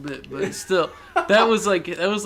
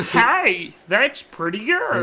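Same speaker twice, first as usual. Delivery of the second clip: damp muffled mushroom voice; slow mushroom croak; 6 semitones higher, 4 dB louder, much slower than usual. Retold or imitated. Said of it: "sounds like the mushroom thing".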